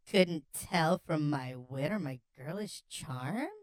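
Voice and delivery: slow, lightly coy question; flirty reply. Acted. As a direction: draw it out, ending on a lilting rise. Redoing the flirty reply, drawn out.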